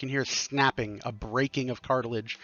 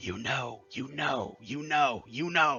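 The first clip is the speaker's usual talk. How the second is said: echoing, repeating ghostly voices; 4 dB quieter than usual. Voicing unseen voices that surround the players: echoing voices. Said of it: "You begin hearing echoing voices".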